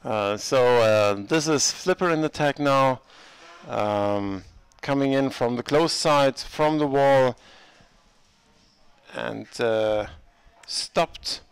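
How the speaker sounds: brisk sports commentary; live play-by-play. Acted. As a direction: call the game as it happens.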